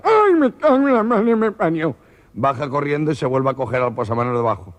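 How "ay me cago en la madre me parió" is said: high, loud panicked yelp of fright; terrified shriek. Acted. The gangoso sees no driver upstairs and shrieks in terror. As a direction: cry out in sheer panic. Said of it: "asomar la cabeza ... hace".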